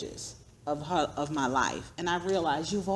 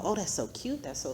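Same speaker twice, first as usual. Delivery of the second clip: mock gushing; 3 semitones higher, 5 dB quieter than usual. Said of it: "People say".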